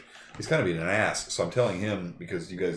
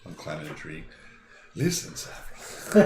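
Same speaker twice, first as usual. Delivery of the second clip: laughing; 5 semitones lower, 5 dB quieter than usual. Real, not acted. Laughing while climbing tree.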